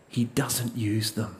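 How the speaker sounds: hushed, weighty statement; quiet, slow emphasis. Real, not acted. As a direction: drop the voice and slow right down on it. Preacher repeats key line softly.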